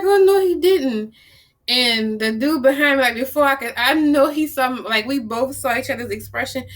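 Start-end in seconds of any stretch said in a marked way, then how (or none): 0.0-1.1 high-pitched, mock-appalled reaction; can't-believe-he-said-that squeal; scandalized disbelief. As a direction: retell your shock way up high. Retold shock at crack remark.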